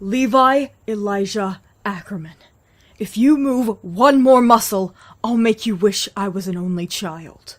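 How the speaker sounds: loud, slow full-name scolding, each name hammered out; a big sister laying down the law at full volume; furious scolding. Acted. Big sister scolding her brother by his full name, furious and loud.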